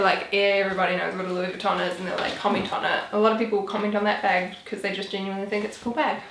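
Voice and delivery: talking fast, short of breath; rushing until breathless. Real, not acted. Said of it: "I'm getting out of breath".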